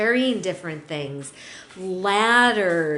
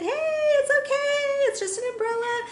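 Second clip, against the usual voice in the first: much higher, fast, sing-song cheerful; making light of it. Shown as a demonstration. Trainer showing owners how to present an umbrella, bright and high. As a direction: chirp it brightly so the dog relaxes. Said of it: "pretty jolly about that umbrella".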